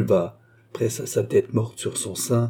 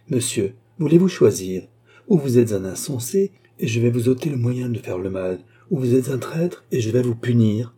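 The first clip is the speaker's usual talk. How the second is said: menace; 2 semitones higher than usual. Acted. Reine menace Charny.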